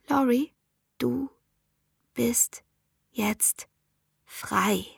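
"Laurie, du bist jetzt frei" with each word set apart by pauses and stressed; slow, firm, word by word: "du bist jetzt frei"; every syllable stressed. A narrator's reading. Amber insists to Laurie that she is free now, each word stressed. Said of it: "Amber betonte jede einzelne Silbe".

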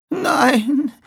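high, gasped refusal; gasping. Acted. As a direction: gasp it out. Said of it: "keuchte die alte Frau".

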